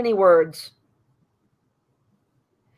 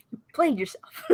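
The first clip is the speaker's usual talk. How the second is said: softer, giggling repeat; laughing tease; 3 semitones higher, 9 dB quieter than usual. Real, not acted. Player giggling the joke back to his friend, soft and amused. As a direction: laugh it back at him quietly. Teasing friend's self-own.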